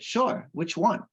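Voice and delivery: a hint of the baffled security guard; puzzled guard.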